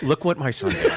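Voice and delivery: a proud, laughing "Look what MY son did"; beaming, claiming the kid, stress on "my"; proud parent quote. Retold or imitated. Wife bragging about her son's good grades, proud and laughing. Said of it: "it's like".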